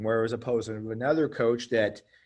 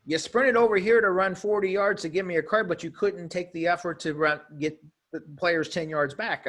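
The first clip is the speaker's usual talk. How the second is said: mock-indignant coach, pitched up high and louder; indignant coach retort; 6 semitones higher, 3 dB louder than usual. Coach calling out the referee who sprinted over, higher indignant jab. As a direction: throw the ref's sprint back at him, higher and louder. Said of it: "the coach made the simple re-, reply, like".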